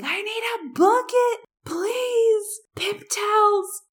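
high, urgent calls for supplies; frantic cleanup yell; retold yelling. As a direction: shout for a bucket in a panic. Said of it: "And, like, yelling at people".

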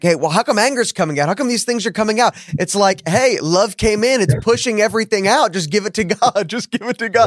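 lightly voiced loving God, coaxing; God's gentle voice. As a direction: quote God kindly, a pitch up from your own. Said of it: "I love that where it's like".

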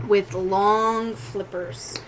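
slow build with long pauses between phrases; game master's suspense narration. A narrator's reading. Game master revealing a monster to player, halting suspenseful narration. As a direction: draw out the eerie reveal piece by piece.

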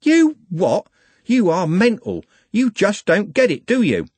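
high, loud, incredulous attack; wasp-like fury. A narrator's reading. Trev suddenly in the gang leader's face, furious. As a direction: go for him like a wasp. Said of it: "suddenly in his face like a wasp".

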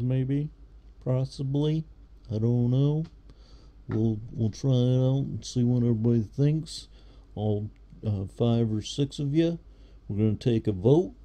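announcer voice. Shown as a demonstration. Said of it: "I wanna do more voices".

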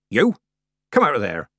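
loud call at the kitten; shouted order. A narrator's reading. Granny shouts after the kitten running into the horn, loud. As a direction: bark You! Come out of there!. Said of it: "Granny shouted".

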